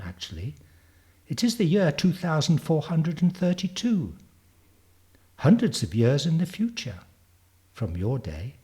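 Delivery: lightly voiced future girl, matter-of-fact; Zanzi. Girl telling Darwin about her time, lightly voiced confident child. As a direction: explain it like a confident child, slightly emphatic.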